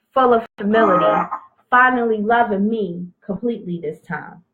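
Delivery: measured spoken-word poem reading; poem recitation. Acted. Recites her poem Crossroads.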